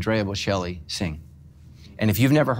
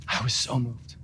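softly repeated; 7 dB quieter than usual. Real, not acted.

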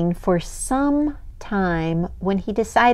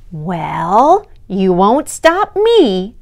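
defiant; 8 dB louder, slower than usual. Acted. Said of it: "said Snail to the thing".

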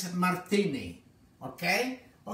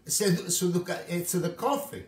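put-on French-accented protest; 5 semitones higher than usual. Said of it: "He said to me".

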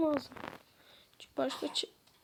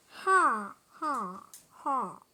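lightly lowered villager voice; a hint of a low villager voice; disguised deep voice; 4 semitones lower, much slower than usual. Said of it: "sesimi değiştirip ... köylü olarak". (alçak köylü sesi taklidi)

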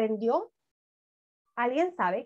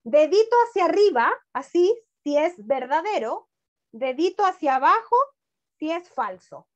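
cheerful instruction; 3 dB louder than usual. Shown as a demonstration. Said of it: "necesito la ayuda de todos".

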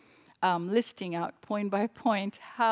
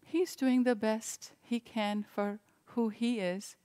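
calmly. Retold or imitated. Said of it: "Swami calmly said".

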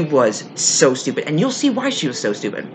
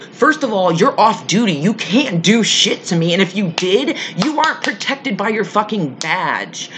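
mildly heated, higher-pitched telling-off; retold indignant retort; 4 semitones higher than usual. Storyteller replays telling off an off-duty officer, mildly indignant. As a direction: lay down the law, a touch indignant.

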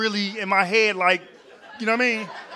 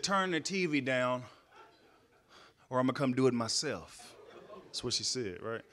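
softer, lower eavesdropping murmur; hushed retelling; 7 semitones lower, 10 dB quieter than usual. Retold or imitated. Comic retelling what he hears through the wall, softly. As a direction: keep it low like listening at the wall.

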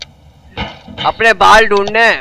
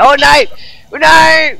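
oh no cry; 8 semitones higher, 3 dB louder than usual. Real, not acted. Character about to fall.

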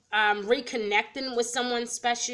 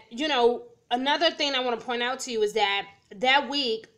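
peppermint in mouth. Real, not acted. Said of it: "I have a peppermint in my mouth".

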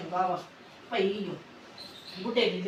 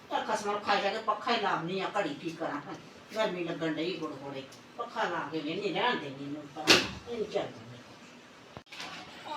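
weary and low; 3 semitones lower, 7 dB quieter than usual. Acted. Tired from the heat.

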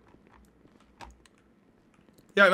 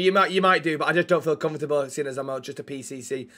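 petulant mock humility, trailing down; sulky false modesty; 4 semitones lower than usual. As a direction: play the reluctant learner, sinking lower. Sulking over low rank.

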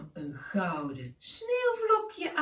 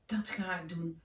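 put-on softer, hushed boy's wish; tender wish; 3 semitones lower, 4 dB quieter than usual. Keesje tells the owl his heartfelt wish, softly. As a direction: say it like a secret dream.

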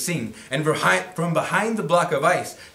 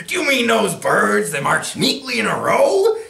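cheery; 9 semitones higher, 6 dB louder than usual. Acted. Tacky's cheery question.

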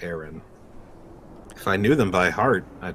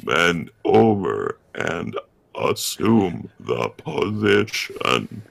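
computer voice; much slower than usual. Pretend. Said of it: "My favorite computer voice".

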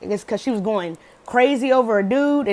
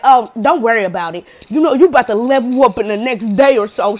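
louder, pumped-up friend hyping you up; hyped pep talk; 5 dB louder than usual. Retold or imitated. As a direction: talk them up like a hype friend.

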